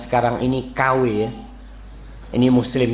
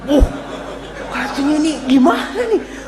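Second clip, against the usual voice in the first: much higher, squeaky startled voice; mock frightened wife; 14 semitones higher than usual. Frightened wife reacting to husband's harsh love words, high mock voice. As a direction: play the wife unsure if it's love or threat.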